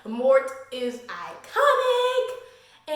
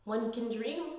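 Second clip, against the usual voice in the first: wistful sigh; 3 semitones lower, 8 dB quieter, slower than usual. Retold or imitated. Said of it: "And I was like".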